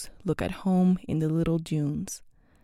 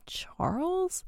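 whispered; 10 semitones higher, 8 dB quieter than usual. A narrator's reading. Ayo trying to recall name.

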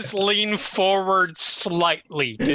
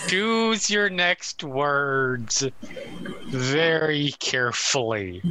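slow menacing warning; 3 semitones lower, slower than usual. Acted. Mock threat to a teammate.

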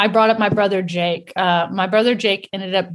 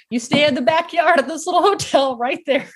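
higher, brisk retold order; bossy mother; 6 semitones higher than usual. Mother leaving kids for interviews, mock bossy instructions. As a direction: lay down the rules, raised pitch.

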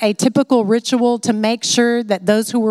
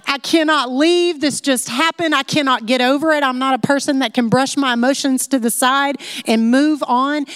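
emotional clinging; 4 semitones higher than usual. Retold or imitated. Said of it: "she's not only emotional".

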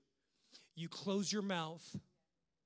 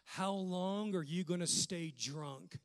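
judgmental scolding. Retold or imitated. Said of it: "he had the audacity to say".

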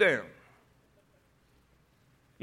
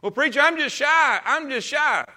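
higher, whiny put-on "I'm just shy"; mock shy excuse; 7 semitones higher, 4 dB louder than usual. Preacher imitating a member claiming to be shy, whiny. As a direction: mimic a congregant dodging duty. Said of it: "you ain't no shyer than I am".

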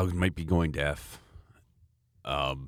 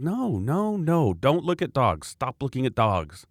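protesting dad; 4 semitones higher than usual. Retold or imitated. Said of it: "I'm like".

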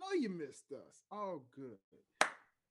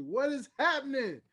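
hype shout; 6 semitones higher, 11 dB louder than usual. Acted. Hype welcome to the audience.

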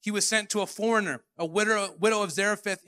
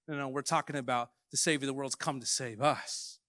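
lower, mock-indignant protesting congregation; lightly voiced offended worshipper; indignant crowd; 6 semitones lower, 4 dB quieter than usual. Synagogue crowd imitated protesting.

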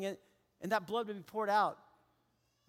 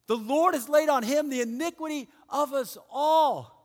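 louder and higher, punching laid; emphatic proclamation; 5 semitones higher, 6 dB louder than usual. Acted. Pastor repeating the verse to his church, loud and emphatic. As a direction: proclaim it to the back row.

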